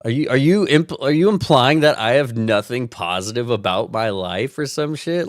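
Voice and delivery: indignant mock outrage. Real, not acted. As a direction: call out the insult. Indignant accusation.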